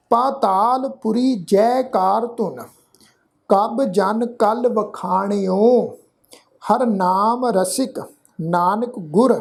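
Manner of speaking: slow, measured Gurbani reading; scripture recitation. Shown as a demonstration. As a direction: recite in short phrases with drawn-out vowels. Teacher recites scripture for learners.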